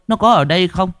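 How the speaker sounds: mother presses again, pleading; urgent repeat. Acted. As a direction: repeat it with rising urgency, stressing "có".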